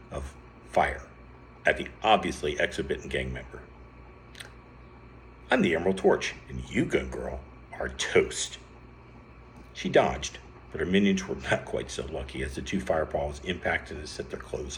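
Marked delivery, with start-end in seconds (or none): 5.5-8.6 lightly voiced superhero boast; heroic challenge. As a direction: hero calling out a villain, mildly hammed up. Hero announces himself and threatens villain.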